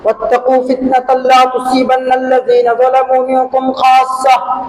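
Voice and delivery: sustained, level-pitched Arabic recitation; preacher intoning scripture; Quranic verse recitation. Real, not acted. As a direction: recite the verse firmly on one held note. Recites Quran verse within sermon.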